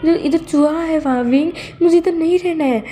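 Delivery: high, whiny frightened boss; a lightly hammed-up scared man; scared Wang ji. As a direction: plead in mock panic about the mouse. Wang ji refuses room.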